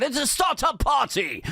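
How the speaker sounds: high, hammed-up Lithuanian accent; bad Lithuanian accent. Comic mocks a Lithuanian pop compilation advert, bad Lithuanian accent. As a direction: do a terrible Lithuanian pop-album announcer, pitched high. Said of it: "a terrible attempt at a Lithuanian accent".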